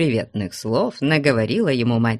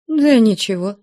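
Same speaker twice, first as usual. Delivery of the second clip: grumbling; 9 semitones higher, 6 dB louder than usual. Acted. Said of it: "брюзгливо ответила".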